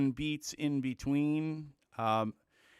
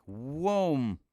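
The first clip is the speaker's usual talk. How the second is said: a quick swooshing "whoom", a bit louder; vocal whoosh; 5 dB louder than usual. Retold or imitated. Teacher imitating the song's jump back to speed with a whoosh.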